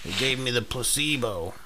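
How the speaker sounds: lightly voiced buddy impression; a hint of his friend's voice. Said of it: "I'm doing an impression of you".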